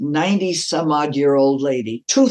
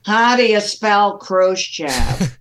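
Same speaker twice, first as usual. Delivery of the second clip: mock dim operator; 6 semitones higher, 3 dB louder, slower than usual. Mocking the clueless American operator.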